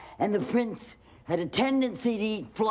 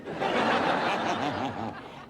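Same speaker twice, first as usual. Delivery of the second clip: witch cackle; 6 semitones lower than usual. A narrator's reading.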